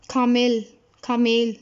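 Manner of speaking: खामेल with a long drawn vowel; lengthened vowel. Shown as a demonstration. Teacher drawing out खामेल for her students. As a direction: stretch the vowel in खामेल, said slowly and clearly. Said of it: "इसको थोड़ा सा लंबा करके पढ़ते हैं".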